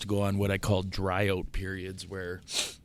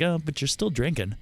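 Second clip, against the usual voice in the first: mock whiny friend; 6 semitones higher than usual. Mocking the friend's nagging.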